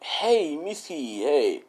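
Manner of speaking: mock husband's sing-out hello; drawn-out greeting. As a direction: call out a falling, wheedling hello. Retold husband's greeting to wife.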